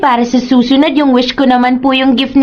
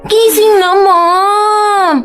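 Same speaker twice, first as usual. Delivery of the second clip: insistent calling; 6 semitones higher, slower than usual. Acted. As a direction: keep calling till she gets up. Child insisting mother get up. (mapilit na malakas na tawag ng bata)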